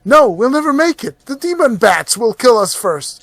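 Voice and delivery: high, frightened protest; panicked voice. Acted. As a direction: fear they won't make it. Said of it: "Another voice".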